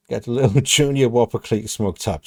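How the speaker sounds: reading the lyric through real laughter; laughing while reading. Real, not acted.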